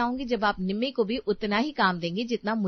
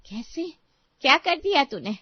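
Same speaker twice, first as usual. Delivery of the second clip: shocked outburst; 5 semitones higher, 4 dB louder than usual. Acted. Sister reacts in shock.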